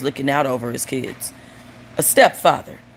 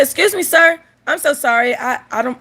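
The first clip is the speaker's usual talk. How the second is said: high, hesitant polite voice; polite, apologetic; 8 semitones higher than usual. Acted. White lady stops runner on beach, polite and apologetic. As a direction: start high and sweet, then falter downward.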